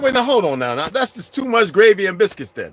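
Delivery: very high, loud mock outrage; hammed-up shocked voice; high mock protest. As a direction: squeal out the protest. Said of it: "I said".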